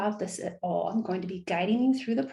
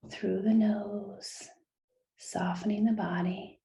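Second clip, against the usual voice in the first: guided meditation. Acted. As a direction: lead listeners into relaxation, unhurried with long pauses. Starts the guided breathing.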